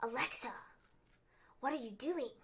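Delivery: soft, half-whispered calling of "Alexa"; imitating a worried friend pleading; hushed worried plea. Host mimics Nikki Cross pleading softly. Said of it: "Nikki Cross came out and was all like".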